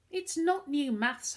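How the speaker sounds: put-on boy shouting at his mother. A narrator's reading. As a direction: burst out in frustration. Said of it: "Harvey shouted".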